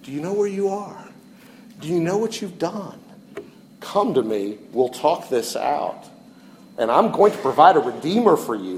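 soft, gracious voice of God calling; God gently calling the hiding sinners home; gracious, gentle. Retold or imitated. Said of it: "God very graciously said".

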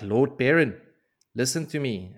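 urgent call. Retold or imitated. Messenger runs up to Perrin.

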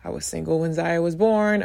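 ordinary talk, nothing marked

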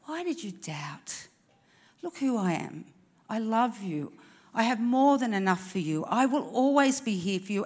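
gentle, reassuring comfort; tender and loving. Retold or imitated. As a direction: speak like a caring friend lifting him up. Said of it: "I don't think that Jesus said it like that".

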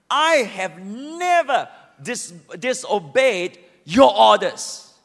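drawn out with bitterness; bitter complaint. Acted. Son bitterly defending his obedience, slow. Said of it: "deeply angry and bitter".

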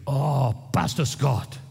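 slow, drawn-out fond greeting; Iranian friend greeting. Retold or imitated. Pastor imitating Iranian friends greeting him, slow and fond. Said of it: "And they would".

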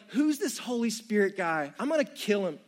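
mock-jealous Joey, laughing. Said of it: "he's probably like".

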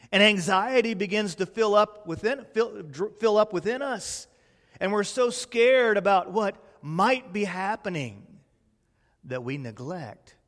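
ordinary delivery

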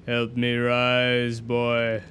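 ancient evil voice. Acted. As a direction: pull him down slowly. Pit voice demanding.

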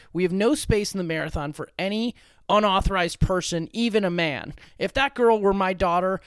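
a hint of a stern official; race official voice. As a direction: stiff official laying down the rules. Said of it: "That's a good race official voice".

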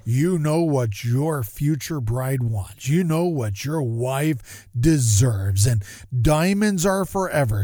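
slow, lightly deep-voiced commercial announcer; a mild take on a smooth diamond ad pitch. Mocking the jewelry ad for his viewers in a slow announcer voice. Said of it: "with a deep voice".

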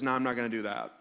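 low, gentle but firm refusal; kind and loving. Acted. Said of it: "Jesus very kindly and lovingly says".

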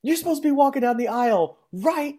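a relative urging grandpa to the aisle, high mock voice. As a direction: pitch it way up like a frantic relative. Someone urges grandpa to the aisle.

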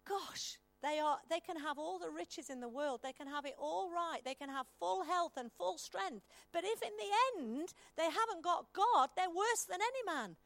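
it dawns on you, then press it; sudden realisation. Retold or imitated. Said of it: "where he goes".

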